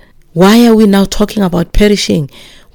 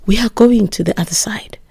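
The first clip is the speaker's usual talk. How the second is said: whispered; 3 semitones higher, 5 dB quieter than usual. Acted. Preacher whispers the promise.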